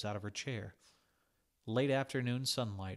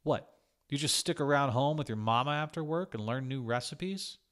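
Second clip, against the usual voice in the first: louder, higher sneering jab; mocking hiss made louder and higher; 5 semitones higher, 6 dB louder than usual. A narrator's reading. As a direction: spit the taunt at her. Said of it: "Then he hissed".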